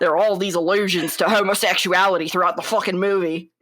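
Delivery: country rant slipping into Scottish; indignant impression with a slight Scottish accent; a bit Scottish. Co-host quoting the actor's anger, accent drifting into Scottish. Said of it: "I went a little bit Scottish there at the end".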